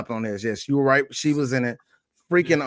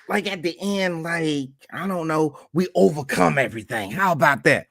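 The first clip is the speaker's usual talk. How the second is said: Whoopi impression. Podcaster imagining Whoopi making up the plot, comic impression. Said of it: "use my best Whoopi voice".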